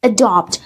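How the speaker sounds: adopt said uh-DOPT, stress on the second syllable. Shown as a demonstration. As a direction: model adopt, schwa then stressed dopt. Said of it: "this vowel sound is pronounced A".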